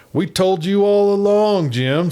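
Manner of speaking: high, loud voice still bubbling with laughter; barely holding back laughter; squeaky teasing voice fighting off laughter; laughing. A narrator's reading. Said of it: "as soon as he could control his voice".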